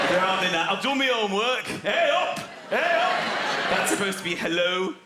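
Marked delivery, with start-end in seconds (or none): 1.6-3.2 loud, high "Hey up!" in vague Yorkshire; vague Yorkshire accent. Shown as a demonstration. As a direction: greet them in broad Yorkshire. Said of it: "attempting a vague Yorkshire accent".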